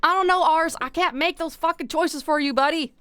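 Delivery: exasperated at the game. Real, not acted.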